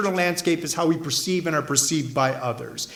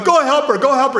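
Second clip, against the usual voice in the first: higher and louder, urging someone to step in; retold cry to help her; imitating onlookers shouting go help her; urgent crowd shouting; 7 semitones higher, 6 dB louder than usual. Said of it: "everyone's going".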